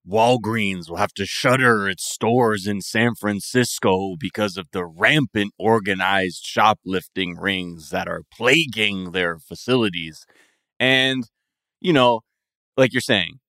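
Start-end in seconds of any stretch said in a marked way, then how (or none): 0.1-10.3 news headline read. Retold or imitated. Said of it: "the headlines are always like".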